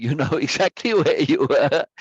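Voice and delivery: chuckling through the words; amused laughing. Real, not acted. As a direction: let a real laugh break into the line. Joking aside about giving birth.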